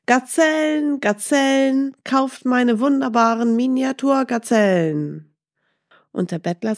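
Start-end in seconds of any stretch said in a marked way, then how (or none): 0.1-5.3 high, carrying street-vendor cry; merchant calling out. A narrator's reading. Gazelle merchant calling his wares at dawn, high hawking cry. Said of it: "weckte ihn die Rufe eines Händlers".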